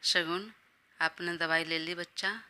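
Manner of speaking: mildly tender, caring question; a touch of fond concern; lovingly. Acted. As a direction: ask gently like to a dear one. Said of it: "बड़े प्यार से कहा".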